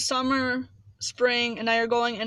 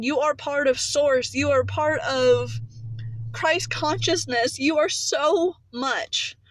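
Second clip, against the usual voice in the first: passionate; 2 semitones higher than usual. Real, not acted. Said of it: "I just got really, really passionate about that".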